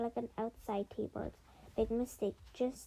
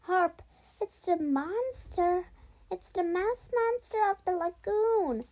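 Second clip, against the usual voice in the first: acted scream of alarm; shrieked; 8 semitones higher, 8 dB louder than usual. A narrator's reading. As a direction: shriek it in hammed-up terror. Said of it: "I shrieked".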